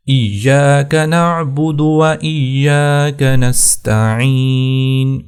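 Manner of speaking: slow melodic tilawat; slow, chanted Quran recitation. Acted. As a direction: recite slowly with drawn-out vowels.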